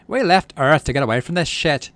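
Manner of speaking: dad finally loses his temper; shouting. Acted. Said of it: "your dad shouts".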